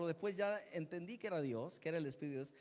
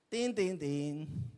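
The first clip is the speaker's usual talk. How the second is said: doorbell again; 3 semitones lower, 3 dB louder, much slower than usual. Retold or imitated. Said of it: "el timbre".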